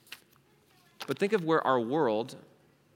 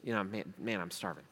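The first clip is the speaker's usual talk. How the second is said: lower, softer mumbled begging; lazy acquaintance asking; 5 semitones lower, 7 dB quieter than usual. Retold or imitated. A hungry acquaintance begging Sam at McDonald's, low and soft. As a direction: ask for a burger, low and lazy. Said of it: "this person says".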